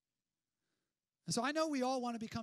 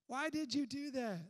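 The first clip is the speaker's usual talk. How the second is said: self-scolding; 3 semitones higher, 6 dB louder than usual. Retold or imitated. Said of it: "we thought to ourselves".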